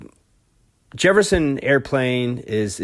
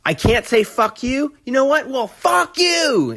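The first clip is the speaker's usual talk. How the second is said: mock-indignant rocker rising to a defiant yell; incredulous defiance; 12 semitones higher than usual. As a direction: act outraged, then spit the insult back. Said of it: "he goes".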